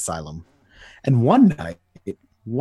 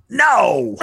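shout; 13 semitones higher, 5 dB louder than usual. Acted. Joker fights back.

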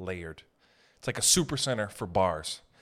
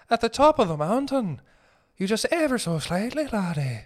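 mock fancy stylist; 9 semitones higher than usual. Comedian playing a fussy stylist describing a haircut, high and dainty. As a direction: coo it like a fussy hairdresser.

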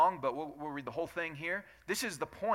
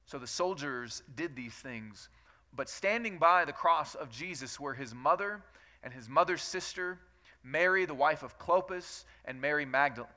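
steady, measured Bible reading to the congregation; scripture reading. Acted. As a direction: read the passage aloud with care. Reads scripture aloud.

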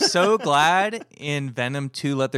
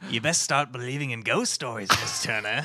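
lightly voiced movie pirate captain, lower pitch; Jeffrey Rush; 5 semitones lower than usual. Podcaster trying an actor's ghost-story line, shaky Jeffrey Rush impression. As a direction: attempt at a low, ominous film-villain line. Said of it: "your Jeffrey Rush isn't working".

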